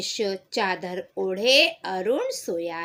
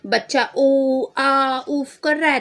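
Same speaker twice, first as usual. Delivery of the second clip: frightened mother; 4 semitones higher than usual. Acted. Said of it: "डर जाती है बच्चे को लेके".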